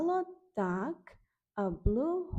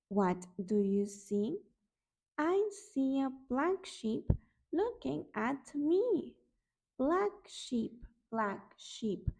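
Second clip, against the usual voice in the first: sing-song storybook read, each line lifting then falling; reading to children. Acted. Teacher reading Brown Bear to toddlers, sing-song. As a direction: read it like a bedtime picture book. Reads picture book aloud.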